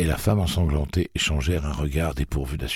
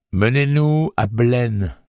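slow, higher, weighted order; slow commanding demand; 8 semitones higher, 4 dB louder, slower than usual. A narrator's reading. Susanna naming Blaine, slow and firm. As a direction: lay down each word slowly.

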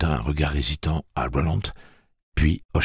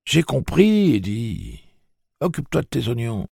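high-pitched, brisk brush-off; sharp retort; 9 semitones higher than usual. A narrator's reading. Susanna telling Eddie to mind his own business, sharp and high. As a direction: tell him off in a raised, high voice. Woman snaps back at Eddie.

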